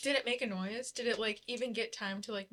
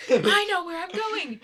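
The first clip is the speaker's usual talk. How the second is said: high and loud, slow insistence; loud bossy captain; 8 semitones higher, 7 dB louder, slower than usual. Acted. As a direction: insist loudly, over him. Racing rival in tunnel.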